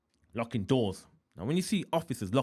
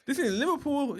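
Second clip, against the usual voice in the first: high, loud acted objection; raised-voice, re-enacted incredulity; exasperated protest; 6 dB louder than usual. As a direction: protest it with the voice pitched right up. Acted protest about picking a cellmate.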